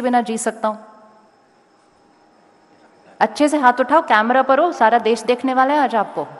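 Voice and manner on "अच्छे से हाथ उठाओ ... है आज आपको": calling out to crowd. Real, not acted. Urging students to raise hands.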